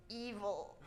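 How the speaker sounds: said low and soft with menace; evil. Shown as a demonstration. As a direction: let the word sound sinister. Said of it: "I wrote".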